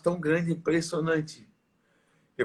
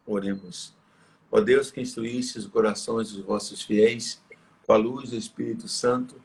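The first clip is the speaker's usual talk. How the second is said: steady, reverent liturgical prayer voice, slightly lower; solemn prayer; 3 semitones lower than usual. Acted. Priest opening the program with a prayer to the Holy Spirit, solemn reverent prayer. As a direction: pray it aloud for the faithful, unhurried.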